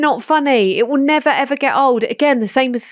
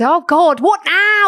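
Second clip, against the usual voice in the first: mock exasperated; 6 semitones higher, 3 dB louder, slower than usual. Impression of Olivia Attwood.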